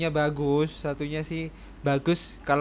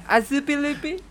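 high, loud mock reporter stumbling over Azpilicueta; Ghana reporter voice; 13 semitones higher, 6 dB louder than usual. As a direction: sound out Azpilicueta like a foreign reporter reading it cold. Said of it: "kayak reporter Ghana yang nggak bisa ngeja Aspilicueta".

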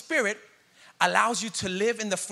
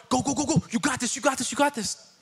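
cheering on; 6 semitones higher than usual. Retold or imitated. Jesus cheering you on.

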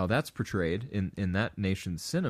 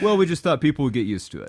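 mock lazy reply; 5 semitones higher, 6 dB louder, faster than usual. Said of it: "imagine if they said".

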